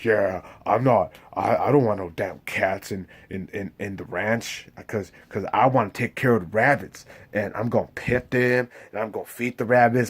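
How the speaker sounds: lightly voiced Lenny, fussing about rabbits and cats; Lenny impression. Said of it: "he was all like".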